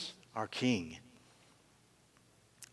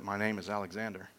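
softer, lower sheepish mumble; a caught soldier mumbling his name to the king; mumbled; 3 semitones lower, 10 dB quieter than usual. Acted. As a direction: murmur it, afraid to say it. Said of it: "the boy kinda mumbles a little bit".

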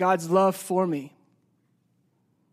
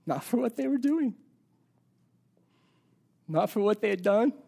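passionate emphasis; 4 dB quieter than usual. Real, not acted. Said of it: "with as much passion as I can".

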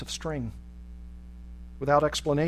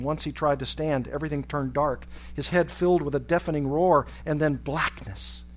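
ordinary delivery

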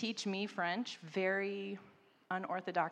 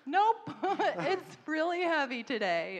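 high, loud, laughing through the words; laughing admission; 9 semitones higher, 8 dB louder than usual. Retold or imitated. Pregnant mom tells a Muslim mom she's struggling, laughing. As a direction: laugh off a rough day. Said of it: "And I'm like".

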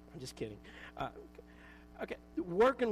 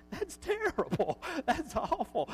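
high, laughing dismay; laughing at own writing; 9 semitones higher, 4 dB louder, slower than usual. Retold or imitated. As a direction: laugh it out in disbelief. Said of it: "and I think".

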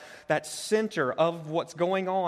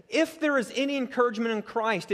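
there stressed, falling firmly on Christ, not a question; confident, falling conditional; assured statement; 7 semitones higher, 3 dB louder than usual. Shown as a demonstration. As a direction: state it as settled fact. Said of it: "it's more along the lines of this".

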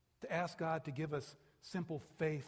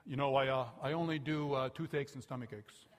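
teasing impression; 5 dB louder than usual. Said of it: "I was kinda teasing him".

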